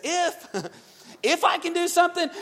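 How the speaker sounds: incredulous laugh, pitch jumping up; laughing disbelief. Acted. Jesus laughs at the father's doubt, incredulous.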